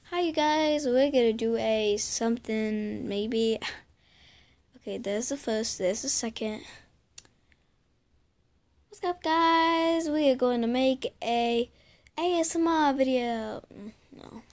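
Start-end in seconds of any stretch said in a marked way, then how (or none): 0.1-0.9 YouTuber intro. Pretend. 8.9-13.6 YouTuber intro. Pretend. Trying out an intro take.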